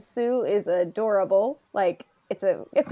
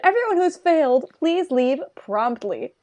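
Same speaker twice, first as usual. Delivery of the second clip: announcer; 3 semitones higher than usual. Retold or imitated. Announcer to the examinees who failed, measured announcement. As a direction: read it out like a test announcement. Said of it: "there's this announcement".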